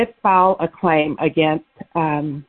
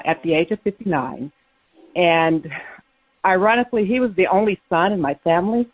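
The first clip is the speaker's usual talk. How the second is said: out of breath. Real, not acted. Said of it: "I'm out of breath from running up the stairs now".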